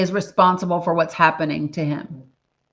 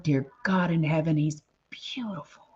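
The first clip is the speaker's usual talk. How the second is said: whispered, reverent amazement; awed whisper; 6 dB quieter than usual. Real, not acted. Awed aside about the baby's beauty.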